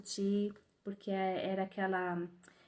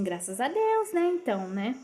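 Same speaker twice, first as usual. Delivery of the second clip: embarrassed clerk; 3 semitones higher, 4 dB louder than usual. Retold or imitated. Clerk's awkward reply.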